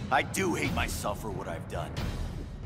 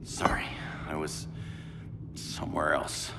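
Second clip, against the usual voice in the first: low, halting, distracted reply; subdued apology; 6 semitones lower, 6 dB quieter than usual. Hero admits he was somewhere else, subdued. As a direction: apologize quietly, mind drifting.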